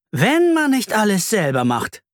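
a touch of exasperated grumbling; mild scolding. Acted. Mum mildly scolds dad for forgetting the booking. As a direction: grumble it, lightly annoyed. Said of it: "schimpft Mama".

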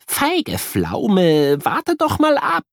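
rising, teasing scold; cheeky buddy nudging him; playful mock scolding; scolding friend. A narrator's reading. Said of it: "Kuno schimpft".

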